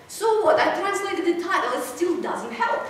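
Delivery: loud, high start, easing down to a slow finish; mock an unconvinced student complaining; imitated student protest. Retold student's dismissive complaint.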